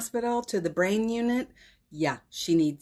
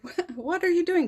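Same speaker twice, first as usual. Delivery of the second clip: surprised; 12 semitones higher than usual. Retold or imitated. Retold shock at friend's call.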